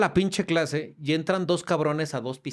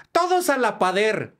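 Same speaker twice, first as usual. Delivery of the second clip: mocking robber's slip; 5 semitones higher than usual. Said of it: "el pendejo dice".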